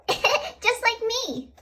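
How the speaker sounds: giggling. Real, not acted. Child giggling at the story.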